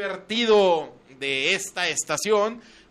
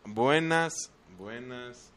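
fading announcer greeting; 5 semitones higher, 9 dB louder, much slower than usual. Acted. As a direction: call it out big, then let it die away. Radio host opening the show.

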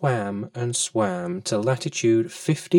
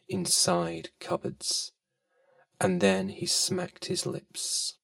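hushed narration; 4 semitones higher, 8 dB quieter than usual. A narrator's reading. Storyteller hushes the ending.

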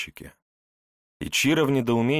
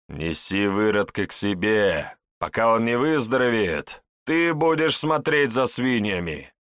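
villain voice; 3 semitones higher, 4 dB louder than usual. Acted. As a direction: order her like a slave. Elder orders woman.

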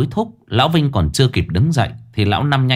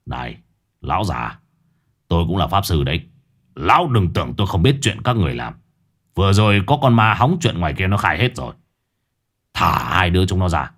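low, rough threatening man; burly Lão Năm; 4 semitones lower than usual. Acted. Lão Năm threatening old Vinh, low and tough. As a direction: lean in low and menacing.

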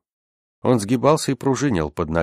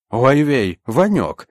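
high, loud teasing answer; mocking; 7 semitones higher, 6 dB louder, much slower than usual. A narrator's reading. Unseen comrade answers from the dark, mocking. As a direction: jeer back at a pal. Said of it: "насмешливо ответила полутьма".

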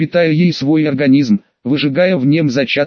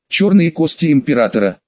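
ordinary delivery

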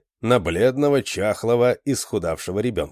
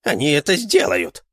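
a touch louder, certain; firm vow; 7 semitones higher, 4 dB louder than usual. A narrator's reading. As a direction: assure her it will happen. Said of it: "Martin vows". (уверенно обещает)

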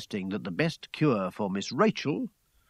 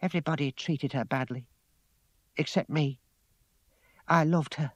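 subdued, slightly raised voice; close to tears; 3 semitones higher than usual. A narrator's reading. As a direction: hold back tears while confiding. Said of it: "Tears came to her eyes".

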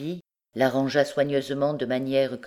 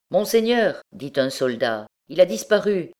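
soldier report; 3 semitones higher, 3 dB louder than usual. Acted.

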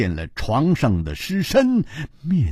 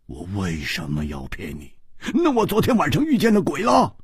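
怒道; faster than usual. Acted. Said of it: "胡铁花也怒道". (先低后高，急促地怒道)

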